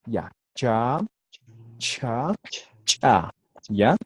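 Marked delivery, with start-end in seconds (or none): 0.5-1.0 plain "cha" as in Spanish; simple CH. Shown as a demonstration. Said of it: "simples es igualito que el castellano". 1.8-2.3 "cha" with a blown puff after CH; aspirated CH. Shown as a demonstration. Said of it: "La aspirada, soplando". 2.8-3.3 "cha" with CH popped sharply before the vowel; explosive CH. Shown as a demonstration. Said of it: "y la explosiva, explotando".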